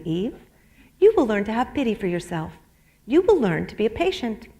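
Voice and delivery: measured memoir reading, lightly voiced; reading from her book. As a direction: read the passage aloud to the room, steady. Reads section of her book.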